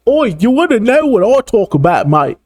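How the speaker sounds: high, mocking Irish accent. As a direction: sneer out Becky's Irish brogue. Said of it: "Her accent is too fucking strong".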